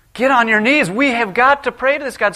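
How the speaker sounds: high, loud frightened shout; terrified sailors. Acted. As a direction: cry out in panic to pray. Terrified sailors urging prayer.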